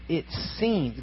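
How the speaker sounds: seems leaned on, drawn out and soft; stress on seems. Shown as a demonstration. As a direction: linger on seems so it sinks in. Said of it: "get that word".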